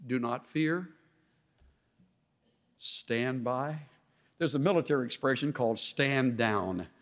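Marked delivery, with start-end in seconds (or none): 0.1-3.9 calm, softened command; steady, unwavering. Acted. Moses answers the panicking people, steady and quiet. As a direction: reassure them quietly without a quiver. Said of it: "without any quivering voice".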